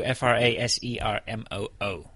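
letter by letter; spelling it out. Shown as a demonstration. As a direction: spell each letter separately. Spelling out Twitter handle.

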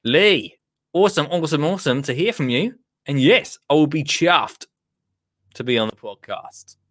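imitating an enthusiastic Australian; Australian accent. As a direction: read it out in a put-on Australian accent. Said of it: "No, I will do it".

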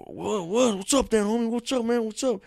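high, pushy mock cholo taunt. Cholo taunting the kid he hit, high and pushy. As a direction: taunt him like a tough guy looking for a fight. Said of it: "He's like".

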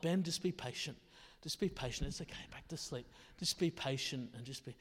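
low, very soft murmur to himself; hushed self-coaxing. Retold or imitated. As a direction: talk yourself into patience, quietly. Retold self-talk calming child at night.

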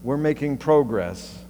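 put-on Canadian accent, "progress" with a long "oh" as proh-gress. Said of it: "in his Canadian accent".

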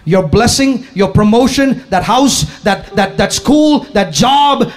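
punched list rising in pitch; emphatic preaching. Real, not acted. Preacher listing believers' hopes, emphatic preaching. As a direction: hammer out each item, climbing as you go.

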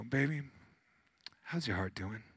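serene, caring question; calm, tender. Retold or imitated. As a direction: ask softly, leave room after the first word. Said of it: "She was just calm".

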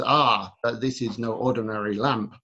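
lightly put-on Arabic accent; a hint of an Arabic market seller. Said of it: "Pardon my, uh, Arabic accent".

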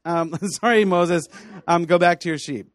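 sarcastic mock apology in God's voice. Preacher mocking Moses' excuse as God, sarcastic. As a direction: play God pretending to give in, mockingly.

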